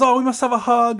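high, loud, effusive imitation; gushing lady. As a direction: burst out as a lady demanding affection.

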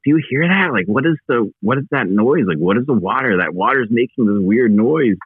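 high, urgent voice of a tripping man; pressing a friend who doesn't answer; urgent questioning. Retold or imitated. Asking his buddy about the creek's noise, high and urgent.

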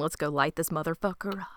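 gleeful conspiratorial whisper. Retold or imitated. Cohost whispering Bev's plan to torch the town. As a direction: whisper it like a plotting villain.

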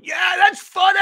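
high, loud braying imitation; hammed-up loud moviegoer laughing along; loud laughing guy. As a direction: ham up the obnoxious loud laugher.

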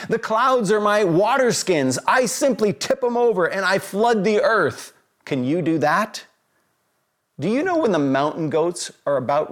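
mild indignant rant, challenging questions; lightly acted challenge, putting someone in his place; a touch of mocking outrage in each question; God. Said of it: "God going on a rant".

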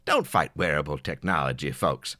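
ordinary talk, nothing marked

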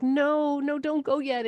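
pleading. Retold or imitated. Mother begging child in dream.

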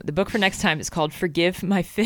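straight face. Real, not acted. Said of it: "try and say this with a straight face".

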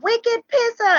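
high-pitched mock holler; playful imitated call-out; retold yell. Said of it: "we yell out".

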